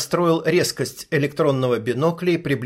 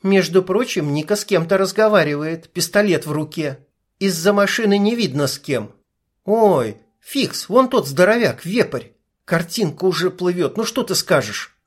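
higher, lightly voiced young woman; female sniper voice; 4 semitones higher than usual. Sniper briefing her partner through binoculars, young woman's voice. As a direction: narrator gives the sniper her own voice.

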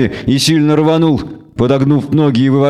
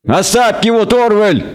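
much higher, bleating goat-devil plea; the devil begging the elf to stop; 9 semitones higher than usual. A narrator's reading. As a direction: bleat it out like a frightened faun. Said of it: "заблеял дьявол".

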